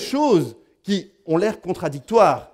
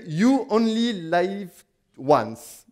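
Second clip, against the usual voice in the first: English accent; 4 semitones higher, much slower than usual. Shown as a demonstration. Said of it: "mon accent anglais".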